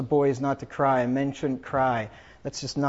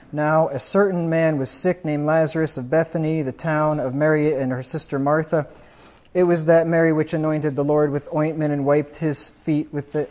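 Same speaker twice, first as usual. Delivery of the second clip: raised, louder preacher's reading of the gospel; scripture reading; 4 dB louder than usual. Acted. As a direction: proclaim the verses to the congregation. Reads scripture aloud at funeral.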